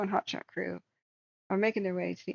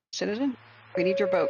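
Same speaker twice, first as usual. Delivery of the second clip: stern official voice, ending in a shout; commandeering a boat, hammed up; mock official demand; 6 dB louder, faster than usual. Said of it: "This is where they're like".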